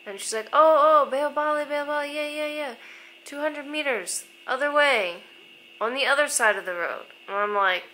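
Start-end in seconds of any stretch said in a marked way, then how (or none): 0.5-7.1 high, loud imitation of a helpful local; excited sudden recognition. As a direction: act out suddenly remembering the place. Acting out lady suddenly recognizing place.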